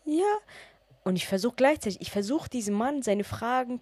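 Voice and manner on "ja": small high yes; high tearful yes. Retold or imitated. Holding back tears while answering the kind man, high and small.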